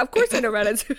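deliberately un-French American delivery; American accent. Acted. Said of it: "in an American accent".

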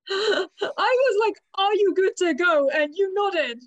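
laughing. Retold or imitated. Retelling while laughing.

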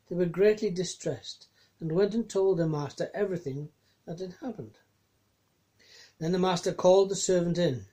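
measured Bible reading; lightly dramatized Gospel reading; scripture reading. Acted. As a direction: read the passage with care. Reads scripture passage aloud.

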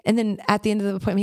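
ordinary talk, nothing marked

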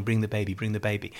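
softly imitated, barely voiced plea; mouthed plea. Crying champion calls to his wife for his baby, softly mouthed. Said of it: "see him mouthing".

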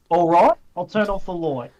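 "right" and "light" bent toward oy; exaggerated Australian vowels. Shown as a demonstration. Mate showing off Australian "light" with an oy vowel. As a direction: broaden "right" and "light" to roit and loit. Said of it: "don't say light, okay, say".

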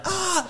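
high-pitched imitated kid's shriek; mock child's yell. Toddler frightened by a hand dryer, mock yell. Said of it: "yelled, and he's like".

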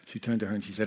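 ordinary delivery

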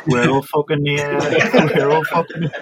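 put-on quoting in a Geordie accent; a Geordie lilt on the chant. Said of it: "when you say it in a Geordie accent".

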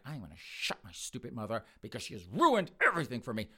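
tense mock-enraged grumble, stressed words; angry. Son resolving to silence his mother, acted anger. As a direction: seethe with exaggerated resentment. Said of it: "That's how angry this guy is".

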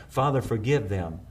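soft, low, strained prayer, short of breath; a dying man's hushed plea for forgiveness; gasping for air. A narrator's reading. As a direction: pray it with the last breath you have. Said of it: "as Jesus grasp-, gasped for air".

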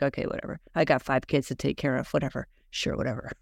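imitating mom giving in; a touch of tired whatever; resigned shrug. Mom shrugging off dad's orders.

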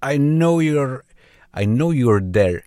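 put-on menacing restaurant owner, Indian accent. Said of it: "this is Rajiv from restaurant".

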